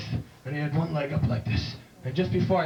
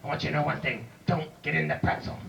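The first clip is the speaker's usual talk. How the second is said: tough wrestling manager. Acted.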